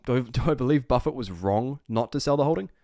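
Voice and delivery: ordinary delivery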